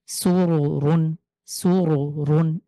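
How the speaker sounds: slow সুরুরুন with thick র sounds; full-mouthed র in সুরুরুন; heavy r. Shown as a demonstration. Teacher recites সুরুরুন with heavy র. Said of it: "মোটা করে পড়ব".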